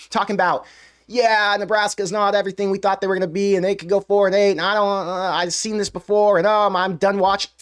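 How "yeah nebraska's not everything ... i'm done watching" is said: mocking a moaning, negative fan; whiny mock complaint, pitched up a little; woe-is-me whining. Host imitating fans who have given up on Nebraska, mock whining. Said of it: "with the woe is me and the negativity".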